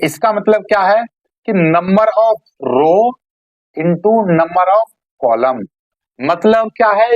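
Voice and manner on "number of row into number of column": slow dictation. Shown as a demonstration. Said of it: "teacher dictates the formula".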